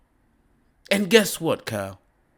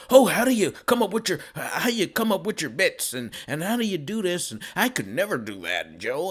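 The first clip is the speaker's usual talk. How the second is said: mock fawning; faster than usual. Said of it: "you were kissing his ass".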